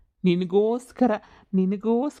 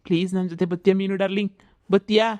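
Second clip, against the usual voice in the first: ghost coaxing; faster than usual. Acted. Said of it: "ಬಾಬಾ ಅಂತ ಕರಿತೈತೆ".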